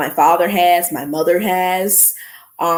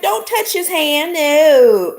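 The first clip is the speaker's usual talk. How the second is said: sharp protective refusal; 8 semitones higher, 4 dB louder, slower than usual. Retold or imitated. Refusing officer's handshake for son.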